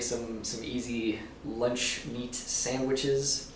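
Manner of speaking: slow, stilted alien voice. Real, not acted. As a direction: say it like an alien studying humans. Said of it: "It sounds like an alien saying that".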